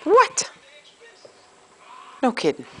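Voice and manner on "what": high, rising surprised what; mock surprise. Real, not acted. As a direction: gasp it out in playful disbelief. Mother reacting to baby, surprised.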